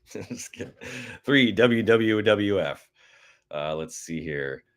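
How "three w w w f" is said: hammed-up on-air call; radio voice. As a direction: boom it out like a radio host. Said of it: "that was my little attempt at that".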